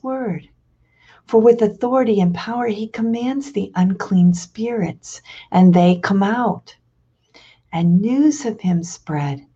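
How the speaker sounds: measured, solemn reading of scripture at Mass; lector's proclamation; Gospel reading. Acted.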